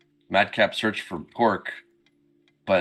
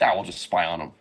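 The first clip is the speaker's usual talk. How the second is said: nonchalant; 4 semitones lower, faster than usual. Retold or imitated. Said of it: "Very, very nonchalantly".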